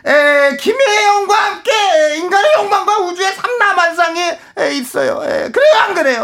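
very high, fast lecturer voice; excitable high scholar ranting; Doh-ol Kim Yong-ok impression. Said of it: "나 돌 김용옥".

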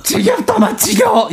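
high, shouted Busan dialect; Gyeongsang dialect shout. Retold or imitated. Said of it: "사투리를 그냥 고치시잖아".

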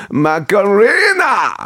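high, hugely stretched announcer flourish; over-the-top radio DJ title call; showy song introduction. Pretend. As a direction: belt out the title, holding the vowel long. DJ hypes up the next song.

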